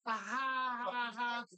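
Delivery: slow, deliberate mock "ha ha ha"; fake laugh. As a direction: spell the laugh out to mock him. Mocks the co-host's joke.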